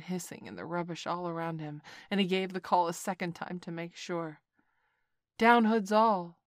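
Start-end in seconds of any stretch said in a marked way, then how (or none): 5.4-6.4 slow, loud cobra chorus; low snake voices. A narrator's reading. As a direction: drag it out like many cobras. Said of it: "said half a dozen low voices".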